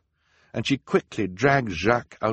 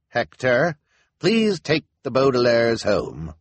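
loud, raised, slow instruction; elder's order; 5 semitones higher, 6 dB louder, slower than usual. A narrator's reading. Elder ordering Hector to take the orphans home, slow and firm. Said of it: "an elder said".

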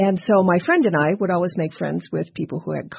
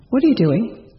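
a woman's voice, higher and louder, close to the ear; a ghost whispering in your ear, but out loud; ghostly woman's voice; 4 semitones higher, 4 dB louder than usual. Retold or imitated. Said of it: "I hear a woman's voice right by my right ear say".

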